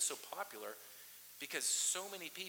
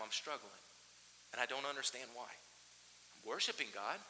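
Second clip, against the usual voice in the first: hushed confession; 3 semitones lower, 6 dB quieter than usual. Retold or imitated. Pastor voicing the psalmist's private struggle, soft confession. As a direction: drop to a confiding hush.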